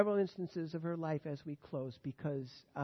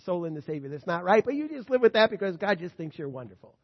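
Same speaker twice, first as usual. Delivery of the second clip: loud, breezy, self-assured reassurance; mocking the complacent believer's breezy "God thinks you're wonderful"; 7 dB louder than usual. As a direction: sell the easy comfort like a glib friend. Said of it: "when we believe".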